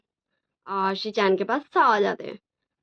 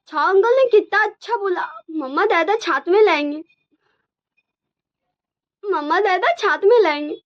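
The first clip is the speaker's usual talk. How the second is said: put-on much higher, louder chirpy kid cheer; happy child voice; 8 semitones higher, 3 dB louder than usual. Twin cheering that dad will stay with mama, high happy child voice. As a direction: squeal it like a delighted little child.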